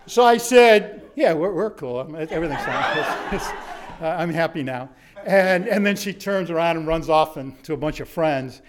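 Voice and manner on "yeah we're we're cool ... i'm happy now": flustered laughing. Retold or imitated. Flustered after surprise kiss.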